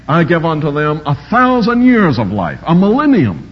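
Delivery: mock-quoting a watered-down verse; mocking misreading. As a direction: lampoon a shrunken promise. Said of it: "Some read it like this".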